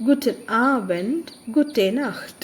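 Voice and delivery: slow, emphatic German greetings; loud, stressed pronunciation. Shown as a demonstration. Teacher modelling greetings for learners, slow and well stressed. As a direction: stress each word and say it out slowly and clearly. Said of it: "നല്ല stress ചെയ്ത്".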